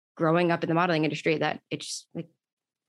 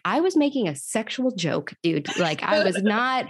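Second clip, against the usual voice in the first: mock-offended retelling, pitched up; exasperated protest; 2 semitones higher than usual. Retelling to the host how she protested to her friend, indignant.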